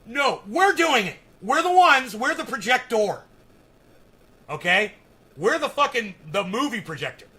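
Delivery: loud, insistent rant, pounding each point; heated rant. Real, not acted. Ranting to his stream viewers, loud and heated.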